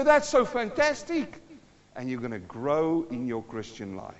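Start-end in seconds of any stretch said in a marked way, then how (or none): 0.0-1.4 tag. Acted. Acts delighted listener.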